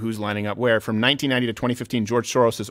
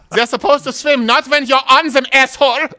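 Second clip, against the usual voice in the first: laughing; 12 semitones higher, 4 dB louder than usual. Real, not acted. Laughing through a funny story.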